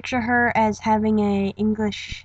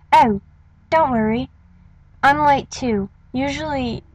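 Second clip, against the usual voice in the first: English accent; 3 semitones higher than usual. Shown as a demonstration. Tie-Dye reassuring a latecomer, light English accent. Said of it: "one quick one with the English accent".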